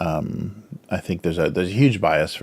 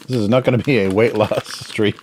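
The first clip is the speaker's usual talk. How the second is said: laughing; 4 semitones higher, 3 dB louder than usual. Real, not acted. Joking about calories.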